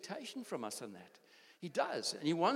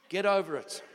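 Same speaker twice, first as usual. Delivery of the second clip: emphatic, louder; firm preacher's command; 6 dB louder than usual. Real, not acted. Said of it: "And I say that in the nicest way".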